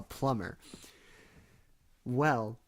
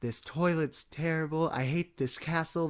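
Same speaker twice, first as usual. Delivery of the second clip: whiny Bowser; 4 semitones higher, 3 dB louder than usual. Retold or imitated. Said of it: "he's like, Bowser monologue".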